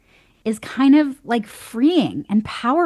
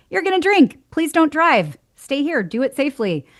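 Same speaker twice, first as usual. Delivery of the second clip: pleading parent; 6 semitones higher than usual. Retold or imitated. Voices permissive parents pleading.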